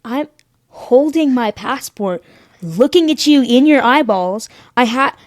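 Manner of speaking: mildly exasperated retort, slowly starting; retold indignation, jumping high at the end. Traveler shows passport to officer ignoring her, mildly exasperated.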